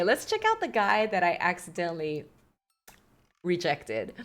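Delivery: whispered, a little sheepish. Real, not acted. Player whispering her embarrassing dating-game confession. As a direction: drop to a whisper on the word.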